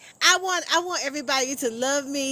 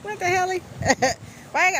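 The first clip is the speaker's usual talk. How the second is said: ordinary delivery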